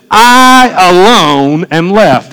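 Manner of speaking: very slow, drawn-out self-pity; mock whining. Elijah complains to God that he is alone, whining. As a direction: stretch every word into a lament. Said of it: "and he's just whining".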